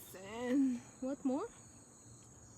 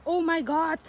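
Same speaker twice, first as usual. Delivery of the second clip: surprised; 6 semitones higher, 9 dB louder than usual. Real, not acted. Startled by something in the field.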